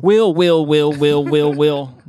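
loud call across the house; calling kids to dinner. Retold or imitated. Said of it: "that's how she calls him? Like when dinner's ready".

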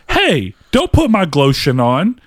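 put-on mildly indignant kid, stretched out; drawn-out, playful mock outrage; mock pissed-off daughter. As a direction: imitate an annoyed daughter scolding. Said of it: "Like, she was pissed".

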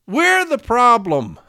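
loud, high and drawn out; real exasperated shout; slow angry outcry. Real, not acted. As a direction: hammer the accusation slowly. Angry repeat of the accusation.

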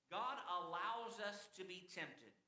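"allows" given firm emphasis; stress on ALLOWS. Real, not acted. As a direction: underline "allows" with the voice. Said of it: "I underline the word "allows".

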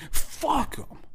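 pitched far up, mocking; high squeaky curse. Real, not acted. Repeated curse, contrasting takes.

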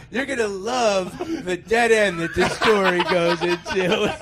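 slow, loud mock sales pitch; tongue-in-cheek promo; mock hype. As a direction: oversell a bad story, half laughing. Mock hype for own dull story.

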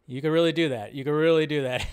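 a hint of a superhero voice, casual; lightly voiced, laid-back caped crusader; casual Batman. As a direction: toss it off with a touch of Batman. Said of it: "it sounds a little casual Batman".

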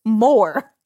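high, worked-up mock wail; fast-starting, high-pitched exasperation; comic distress. Real, not acted. Comic distress at being consoled.

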